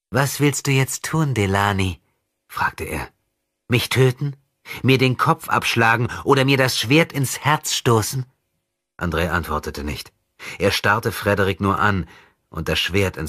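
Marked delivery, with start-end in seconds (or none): 0.1-8.2 higher, louder voice of a sinister boy, mocking; a demon in a child's body toying with his enemy; possessed boy taunting. Possessed boy mocking André's rescue, sinister.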